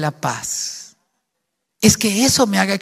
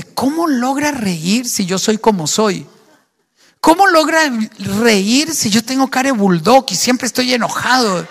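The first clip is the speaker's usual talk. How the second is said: husband wondering aloud; 3 semitones higher than usual. Pretend. Unbelieving husband asks how his wife stays cheerful, rising amazement. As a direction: let the grumpy husband's puzzlement grow until it bursts out. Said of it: "Que él se pregunte".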